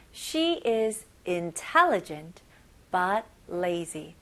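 very slow, phrase by phrase; slow chunked reading. Shown as a demonstration. Teacher breaks the sentence slowly into chunks. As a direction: read it slowly in two chunks. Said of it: "첫 번째 문장 다시 한번 볼게요".

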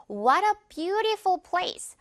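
high, very slow "What a beautiful place", BEAU stressed. Shown as a demonstration. Teacher leading sentence practice, "beautiful" stressed on its first syllable. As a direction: stretch the phrase, leaning on BEAU in "beautiful". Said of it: "view 강세 주면서요".

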